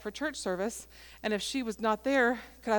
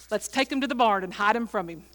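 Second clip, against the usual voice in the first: louder, keen retelling; retold eager plan; 6 dB louder than usual. Old man proposes hiding gifts in the barn, eagerly.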